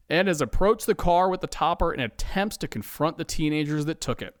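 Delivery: ordinary delivery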